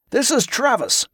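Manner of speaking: cheerful introduction. Acted. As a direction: present the newcomer with a lilt. Host presents newcomer to group.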